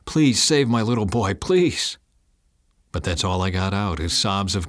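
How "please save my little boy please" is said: pleading, last word pitched much higher; mildly frantic appeal to God; frantic praying. Acted. Father praying for his little boy, frantic. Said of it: "frantically praying".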